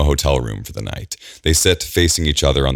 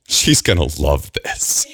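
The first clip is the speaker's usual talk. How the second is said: laughing through tears; 2 semitones higher than usual. Acted. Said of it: "She chuckles and gasps".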